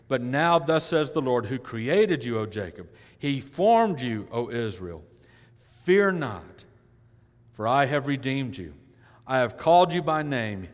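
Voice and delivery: preaching scripture. Acted. Preacher proclaiming Isaiah to the congregation, loud. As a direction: declare it from the pulpit. Reads Isaiah aloud in full voice.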